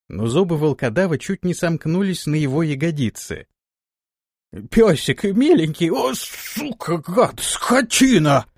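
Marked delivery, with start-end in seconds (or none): 4.7-5.9 high, loud desperate pleading; pleading yell. Acted. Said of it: "заорал Антон". 5.9-8.5 slow, high furious cursing; cursing yell. Acted. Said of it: "заорал Антон".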